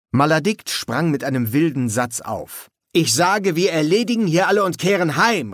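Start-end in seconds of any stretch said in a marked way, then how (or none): 2.9-5.5 high, rapid outburst; calling out. A narrator's reading. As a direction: cry it out like a wild rallying call. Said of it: "rief er".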